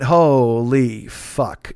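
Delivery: stunned. Real, not acted. Reads the hateful text, stunned.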